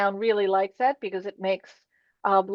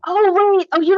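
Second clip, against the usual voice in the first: higher, louder "oh, wait"; sudden realization; 10 semitones higher, 8 dB louder than usual. Real, not acted. Board member catching a mix-up about deadlines, sudden realization. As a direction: interrupt as it suddenly dawns on you.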